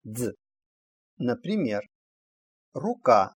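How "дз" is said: "дз" as one short voiced sound; pronounced "дз". Shown as a demonstration. Teacher showing how the letter sounds at word start, pronounced "дз". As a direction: say a brief, isolated voiced "дз". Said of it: "всегда произносится".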